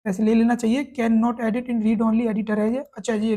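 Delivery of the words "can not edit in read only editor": slow read-out. Shown as a demonstration. Rereads the error message slowly.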